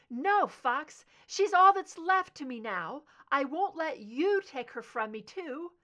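high, loud anguished cry; distraught shouting. Acted. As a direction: wail it out in grief. Mother in distraught denial.

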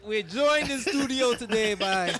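playful put-on Jamaican accent; hammed-up Jamaican accent, slowed; fake Jamaican accent. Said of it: "look at me with my fake Jamaican accent".

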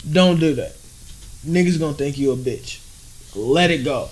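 low, soft mock counsel; hushed advice. No man cautioning a rapper in the studio, hushed advice. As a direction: quietly talk a friend down, lightly acted.

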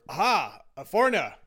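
loud, high roaring challenge; a drunk man bellowing at a stranger; drunken roar. A narrator's reading. Drunk on a train roaring at a foreigner, loud and high. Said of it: "the drunk roared".

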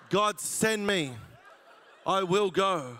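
loud, slow, hammed-up devotion; mock eager. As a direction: overplay the eager volunteer, laughing.

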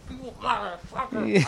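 overjoyed, grabbing a stranger; high laughing cry of joy; joyful laughing yell. Retold or imitated. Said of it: "I was like".

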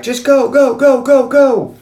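high, insistent mock shout; urgent yell. Men jumping into a hijacked cab, urgent yell.

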